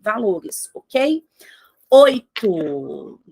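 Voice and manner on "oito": whispered number. Acted. Announcing point eight, whispered.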